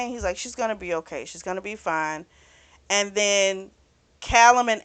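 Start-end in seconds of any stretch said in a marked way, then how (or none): 0.4-2.3 softly retold reassurance; reassuring. Man answering a child worried about mommy, softly reassuring.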